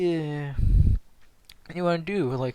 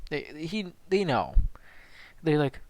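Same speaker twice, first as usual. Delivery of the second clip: usual speaking voice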